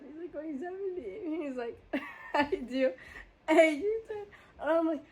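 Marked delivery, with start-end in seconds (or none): 2.3-4.2 mock baffled driver. Mocking coworker asking about U-turn.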